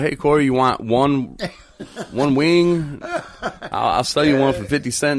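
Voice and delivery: lightly voiced Tyrone offering a wing, laughing; mocking Tyrone. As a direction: tease him by imitating the offer. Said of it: "not a mention of".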